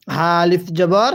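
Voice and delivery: হা said from the throat and stretched slowly by one alif; round ha sound. Shown as a demonstration. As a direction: breathe the হা out slowly, not as a plain h. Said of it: "উচ্চারণ করার সময় অনেকেই আমরা ভুল করি".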